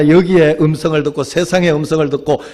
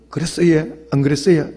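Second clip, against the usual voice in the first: Gyeongsang dialect. Retold or imitated. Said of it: "사투리 써가면서".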